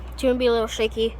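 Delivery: muffled behind a mask; through an n95 mask. Real, not acted. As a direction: talk through a face mask. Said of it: "I'm wearing an N ninety-five mask today".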